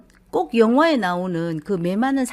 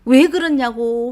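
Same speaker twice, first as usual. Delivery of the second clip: retold angry outburst; 2 semitones higher, 8 dB louder than usual. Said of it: "화를 냈다가".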